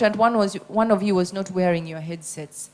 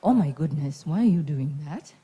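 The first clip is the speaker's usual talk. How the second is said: a bit lower, grounded voice from the diaphragm; 3 semitones lower than usual. Shown as a demonstration. Trainer demoing a lower diaphragm voice to students. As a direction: drop it down and speak from the belly. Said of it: "the difference in the intonation".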